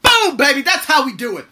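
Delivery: loud, high victory shout; pumped-up cheer; triumphant. Real, not acted. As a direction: celebrate like a win. Triumphant cheer after rant.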